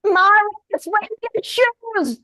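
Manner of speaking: high, slow call from afar; lone voice in an ad. Retold or imitated. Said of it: "a lone voice came through it".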